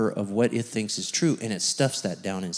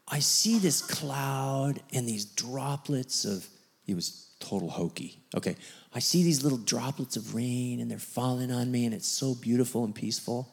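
hushed wonder at a vision; awed hushed report; 7 dB quieter than usual. Retold or imitated. Man describing his vision, softly awed. Retelling man's soft vision.

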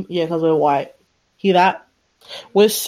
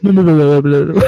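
little sister; 6 semitones lower, 7 dB louder, faster than usual. Retold or imitated. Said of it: "little sister doesn't say anything".

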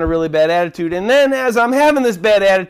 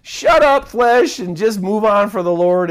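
scolding himself; 2 semitones higher than usual. Retold or imitated. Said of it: "I kinda had to slap myself and go".

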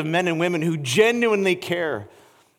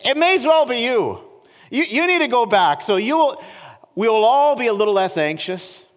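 Paul urging; 4 semitones higher, 3 dB louder than usual. Retold or imitated. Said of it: "and says".

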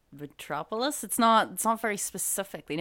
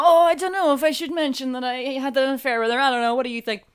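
mock-worried confession; 5 semitones higher, 8 dB louder, faster than usual. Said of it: "he's just like".

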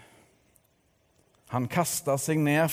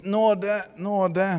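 playful squeal; 7 semitones higher, 4 dB louder than usual. A narrator's reading. Remembered playful snow fight cry.

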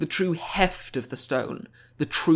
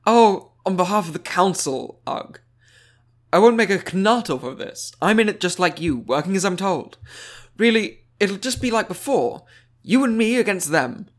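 higher, louder, breezy and chummy; bright wizard envoy; 5 semitones higher, 4 dB louder than usual. Acted. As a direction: play her as falsely friendly, all smiles. Alba voiced in the story.

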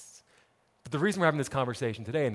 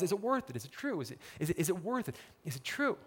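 questioning ourselves; 2 semitones higher, 9 dB quieter than usual. Retold or imitated. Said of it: "we start asking ourselves".

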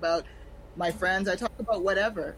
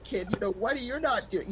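lightly voiced scolding Caribbean mom; a hint of a scolding mom. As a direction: nag like a disappointed Caribbean mother. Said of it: "my mom's voice in my head saying".

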